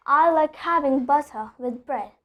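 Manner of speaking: "butter" with no R at the end; British non-rhotic R. Shown as a demonstration. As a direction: drop the final R of "butter". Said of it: "I'm not pronouncing the R".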